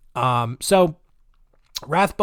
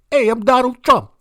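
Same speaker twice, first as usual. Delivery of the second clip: higher, louder put-on Trump voice; a clumsy, raised mock Trump; bad Donald Trump impression; 11 semitones higher, 7 dB louder than usual. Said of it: "This is a baddie Trump impression".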